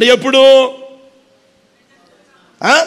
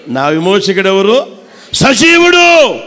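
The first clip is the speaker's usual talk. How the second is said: said loudly; 2 semitones lower, 3 dB louder than usual. Shown as a demonstration. Preacher showing the church how to declare it loudly. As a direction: proclaim it out loud, ending strong. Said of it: "గట్టిగా అనొచ్చుగా".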